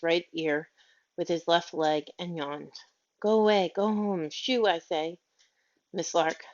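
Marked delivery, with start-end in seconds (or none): 3.2-5.2 angry shooing. Acted. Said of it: "waving her arms angrily at the dog".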